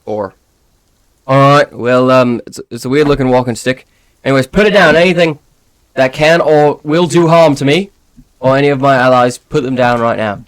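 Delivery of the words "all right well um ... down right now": stern guard. Acted. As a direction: order him to disarm. DM voices the guard.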